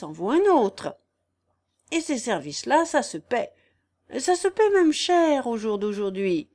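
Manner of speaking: lightly voiced crafty old countryman; sly vagabond. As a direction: toy with the listeners in a mild rustic character. Raguet, sly vagabond, haggles.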